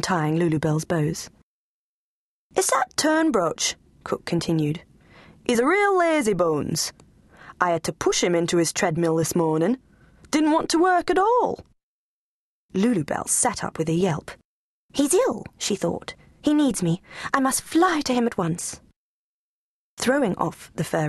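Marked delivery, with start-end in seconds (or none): 2.5-11.7 lightly voiced cross servant; grumbling cook. Cook to the Duchess, grumbling. 14.9-18.8 high, urgent little voice; anxious lapdog. Acted. Lulu Bell deciding to rescue Bones, urgent.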